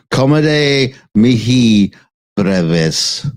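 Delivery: slow careful Latin. Shown as a demonstration. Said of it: "I think I'm saying that".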